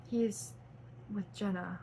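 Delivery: soft sad reply; a touch of sorrow, dropping soft; said sadly. Acted. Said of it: "Tyler said sadly".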